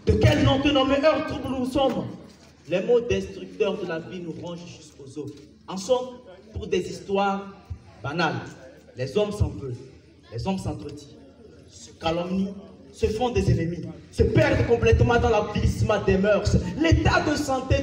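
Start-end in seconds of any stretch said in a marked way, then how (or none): 0.0-2.1 raised, insistent poetic question; forceful declamation. Acted. Poet challenging the troubled hour, forcefully declaimed. 2.7-13.8 low, softened verse with pauses; sombre declamation. Acted. Poet lamenting men at odds, sombre and low.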